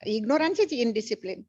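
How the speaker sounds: slow, each word weighed; slow emphatic teaching. Real, not acted. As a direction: spell out the core teaching slowly. Guru stresses key teaching slowly. (धीमे और ज़ोर देकर सिखाते हुए)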